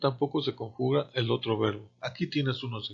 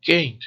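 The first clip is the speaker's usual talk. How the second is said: CAN'T said higher and louder; stressed CAN'T; 4 semitones higher, 7 dB louder than usual. Shown as a demonstration. Teacher shows learners the accented negative, stress on CAN'T. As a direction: punch CAN'T as one accented word. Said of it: "Acentuamos la palabra can't".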